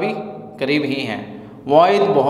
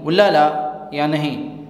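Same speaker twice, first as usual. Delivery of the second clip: slower, careful repeat; slow model phrase. Shown as a demonstration. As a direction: say it slowly for the learner. (آہستہ دہرایا گیا جملہ)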